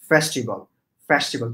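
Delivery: "festival" with an open first vowel, "fæs-ti-bol"; careful teacher's "festival"; correct pronunciation model. Shown as a demonstration. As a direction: model "festival" firmly as a single separate word. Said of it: "This is".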